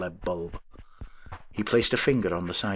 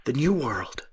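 awed whisper; 4 semitones higher, slower than usual. Acted. Awed inventor.

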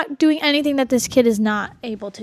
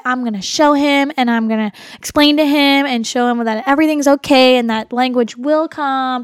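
louder, determined self-pep talk; a therapist hyping herself up, louder and determined; mock pep talk; 4 dB louder than usual. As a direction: psych yourself up for Friday. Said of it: "I'm like".

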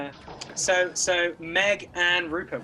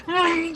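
high, quick mock hum; mock dashing-off noise; 13 semitones higher, 4 dB louder than usual. Game master teasing a player who left the group, high mock hum. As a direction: imitate someone zooming off with a hum. Mocking Eric rushing off alone.

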